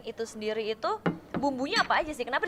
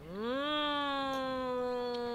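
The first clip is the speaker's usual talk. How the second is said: humming through a mouthful of food; chewing sounds, mouth full; ASMR eating; 2 semitones higher, 7 dB quieter than usual. Real, not acted. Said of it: "A S M R".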